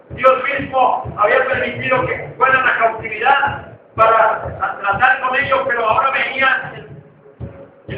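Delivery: rising sermon, pushing the promise home; preaching. Acted. Pastor urges the congregation, fervent preaching. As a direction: preach with growing fervor to the church.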